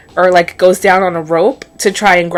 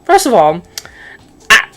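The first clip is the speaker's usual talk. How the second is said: disbelief; 6 semitones higher than usual. Real, not acted. Disbelief at the show.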